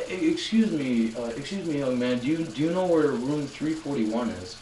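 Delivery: lightly voiced, gentle old man asking politely; a hint of a frail, sweet elderly man. Lost old man politely asks a young student for directions, sweet and gentle. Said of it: "the sweetest voice goes".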